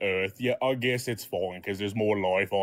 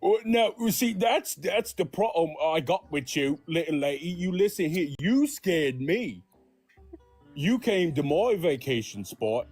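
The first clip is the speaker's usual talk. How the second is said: higher, indignant country scolding; hammed-up yeti telling off the little lady; 5 semitones higher than usual. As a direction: put her in her place, mock-offended.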